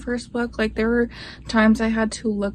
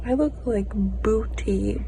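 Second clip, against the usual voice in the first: whisper. Real, not acted. Repeats it whispered.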